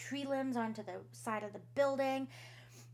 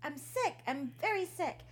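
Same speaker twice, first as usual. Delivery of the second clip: pleading daughter; 8 semitones higher than usual. Acted. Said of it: "she's like".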